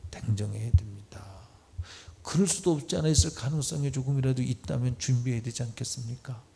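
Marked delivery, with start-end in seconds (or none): none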